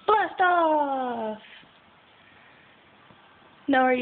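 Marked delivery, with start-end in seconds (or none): 0.1-1.4 punchy blast off cheer; excited exclamation. Shown as a demonstration. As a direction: shout it like a rocket launch. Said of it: "say blast off again".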